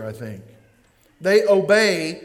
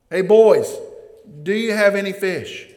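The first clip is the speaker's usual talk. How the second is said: louder call across the water; 5 dB louder than usual. Retold or imitated. Jesus calling to the fishermen from shore, louder call. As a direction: hail them from the shore.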